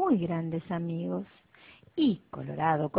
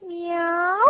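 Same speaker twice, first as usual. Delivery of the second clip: maullido; 8 semitones higher than usual. Acted. Otro maullido misterioso.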